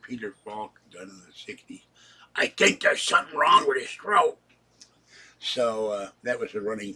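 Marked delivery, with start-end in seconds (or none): 2.4-4.4 breathy whispered line, a little higher; whispered movie quote. Retold or imitated. Quoting a singer's movie line to viewers, whispered. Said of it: "he used the quote for".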